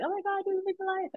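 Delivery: high, breathless influencer gush; high-pitched mock ecstasy over the boat life. Mock Instagram gushing.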